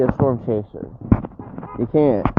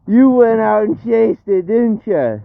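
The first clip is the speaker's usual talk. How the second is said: taunting; 9 semitones higher, 3 dB louder than usual. Real, not acted. Taunting rival chasers.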